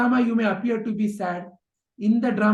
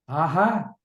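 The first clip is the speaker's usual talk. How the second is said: delighted Aha; 4 semitones lower than usual. Retold or imitated. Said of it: "Krishna's response".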